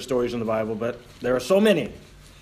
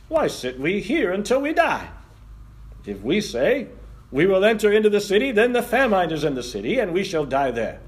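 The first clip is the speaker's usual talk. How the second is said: lepers' voices; 5 semitones higher than usual. Retold or imitated. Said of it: "That's how they would say it in New Guinea".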